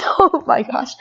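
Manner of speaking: breathless embarrassed whisper under her breath; whispered aside. Real, not acted. Girl whispering, flustered by her dad's teasing. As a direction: hush it out, half to herself.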